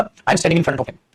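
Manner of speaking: very slow, each word spaced out for the class; teacher spelling out an example sentence at a crawl; slow dictation. Shown as a demonstration. Teacher dictating a sentence to students, very slow and spaced. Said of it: "जैसे मैंने बोला".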